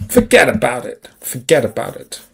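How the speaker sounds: a Brooklyn-ish "forget about it", loosely put on; lightly voiced Brooklyn gangster accent; vague mock New York accent. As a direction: toss it off like a half-baked New Yorker. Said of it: "I don't know what accent that was meant to be".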